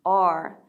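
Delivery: low "R" with the tongue curling up and back; curled-tongue R. Shown as a demonstration. Teacher demonstrating for students, low curled-tongue "R". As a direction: curl the tongue back for a full "R". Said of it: "혀가 자동적으로 말려 올라가죠".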